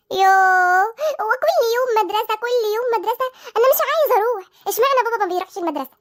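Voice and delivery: whining schoolchild digging in his heels; whiny protest. Acted. Child refusing his mother's wake-up for school, whining. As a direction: grumble and whine like a reluctant kid.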